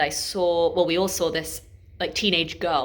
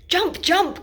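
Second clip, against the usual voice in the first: high, louder poetic chant of egging on; crying out; 12 semitones higher, 5 dB louder than usual. A narrator's reading. Swimmers egg on the diver, high recited cry. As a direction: call it out like poolside onlookers. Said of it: "cry the swimmers".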